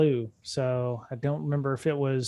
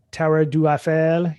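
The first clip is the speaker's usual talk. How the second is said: Eiffel in a clumsy attempt at French; slow, badly faked French accent; awful French accent; 5 dB louder than usual. Shown as a demonstration. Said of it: "my awful accent there".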